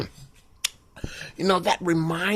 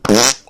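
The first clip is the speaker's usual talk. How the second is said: fart noise; 5 semitones lower, 5 dB louder than usual. Acted. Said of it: "She said".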